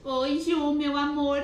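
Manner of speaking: high, loud, gushing hello to a friend; sweet high greeting. Real, not acted. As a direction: gush over a friend arriving. Greeting friend joining live.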